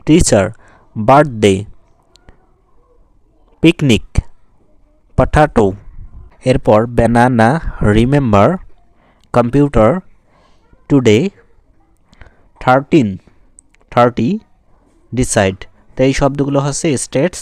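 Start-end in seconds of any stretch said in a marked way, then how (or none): 0.1-0.4 "টিচার" with a strong first syllable "টি"; stress on টি. Shown as a demonstration. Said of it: "টি যখন বলবে তখন তোমাদের হাতে". 1.0-15.6 word drill from "বার্থডে" to "ডিসাইড", one stressed syllable in each, pauses between. Shown as a demonstration. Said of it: "এগুলো হচ্ছে stressed".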